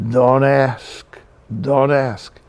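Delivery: weary Jewish complaint, two short phrases; old-lady Jewish accent. Retold or imitated. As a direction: answer like a Jewish neighborhood complainer. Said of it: "That's very Jewish".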